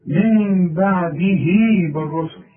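من بعده drawn out very slowly, then بالرسل clipped for the stop; slow recitation, stretching من بعده; tajweed recitation. Shown as a demonstration. Teacher showing how to recite the verse when pausing. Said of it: "إذا وقفت تقول إيه".

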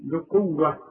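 بقوة as "bi-quwwa"; b with kasra. Shown as a demonstration. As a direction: clear i straight after the b of بقوة. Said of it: "ما عندك أهي بي".

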